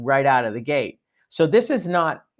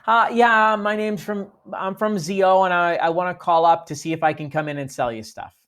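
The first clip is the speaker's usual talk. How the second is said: fumbling caller; 3 semitones higher than usual. Retold or imitated. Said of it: "That's kinda what they hear".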